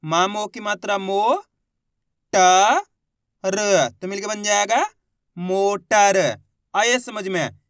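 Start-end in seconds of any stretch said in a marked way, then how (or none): 0.0-6.2 मो, ट, र spoken separately then मोटर; syllable by syllable blending. Shown as a demonstration. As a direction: sound out each letter slowly, then blend. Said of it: "देखो किस तरीके से".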